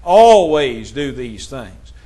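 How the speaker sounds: preacher's slow, emphatic charge. Real, not acted. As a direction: drive the command home slowly. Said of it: "we emphasize the word always".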